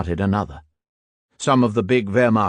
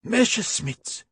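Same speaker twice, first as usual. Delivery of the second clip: high, drawn-out excited shout; 13 semitones higher, slower than usual. A narrator's reading. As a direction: call out the planes with relief. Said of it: "shouted the Stubbs".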